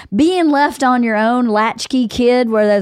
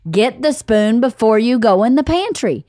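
exasperated parent; 4 semitones higher than usual. Retold or imitated. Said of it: "every day I go".

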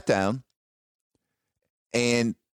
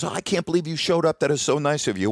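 higher-pitched imitation of delight; retold delight; 4 semitones higher than usual. Gal greeting him at her event, delighted. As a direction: play her pleased greeting lightly.

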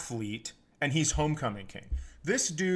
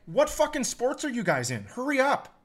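mock heckle; 8 semitones higher than usual. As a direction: hurry them along, fed up and mocking. Heckling slow award walkers.

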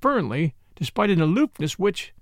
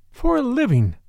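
dryly; 7 semitones higher, 3 dB louder than usual. A narrator's reading. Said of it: "said Ursula dryly".

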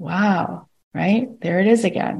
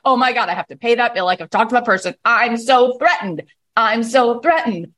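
higher, worried mock fretting; mock anxious mind; 3 semitones higher than usual. Mind imitated listing worries, in a hammed-up fret. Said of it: "your mind goes".

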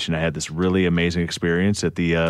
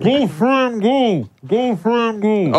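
cheering; 13 semitones higher, much slower than usual. Real, not acted. Cheering on a contestant.

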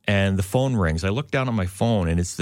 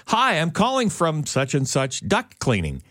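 imitated telemarketer; 5 semitones higher than usual. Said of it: "And she goes".

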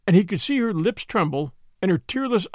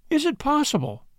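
faltering; 9 semitones higher than usual. A narrator's reading.

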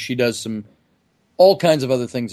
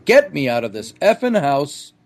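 mild mock yell of panic; half-hearted imitation of a friend yelling to escape; retold yell; 2 semitones higher than usual. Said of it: "he yells out".

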